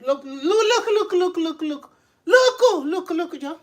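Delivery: loud, high string of looks with laughter in it; rapid-fire repeated calls, climbing and loud; laughing, insistent hollering; excited calling out. Real, not acted.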